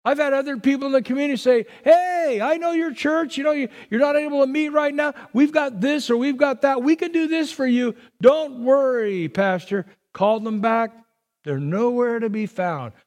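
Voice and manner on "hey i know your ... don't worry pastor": higher, keen, quick offer of help; eager helper. Retold or imitated. Community members reassuring the pastor, eagerly upbeat. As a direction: chirp it like a neighbour promising everything.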